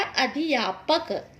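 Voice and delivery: अध्यापक as a-dhi-yaa-pak; mispronounced अध्यापक. Shown as a demonstration. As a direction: put an extra i into अध्यापक. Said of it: "अध्यापक नहीं".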